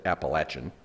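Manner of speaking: Appalachian with short a, as "latch"; Southern pronunciation. Shown as a demonstration. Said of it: "that's how we say it".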